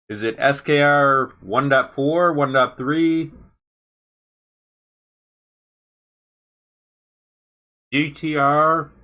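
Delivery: talking with food in mouth; words pushed around a bite of food; mouth full. Real, not acted. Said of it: "Sorry, I got food in my mouth".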